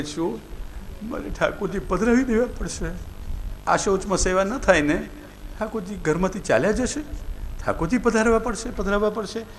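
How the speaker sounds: mild mock-weeping plea, voice lifted; tearful pleading. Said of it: "રડતા રડતા પૂછતા હતા".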